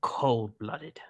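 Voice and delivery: hammed-up Australian, laughter creeping in at the end; Australian accent. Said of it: "Just go Australian".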